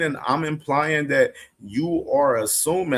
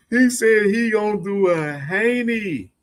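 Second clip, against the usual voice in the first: amused retelling; 5 semitones higher than usual. Real, not acted. Host repeats tweet, amused.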